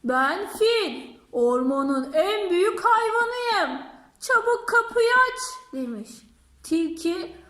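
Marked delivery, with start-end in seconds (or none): 0.0-5.4 demanding elephant. Acted.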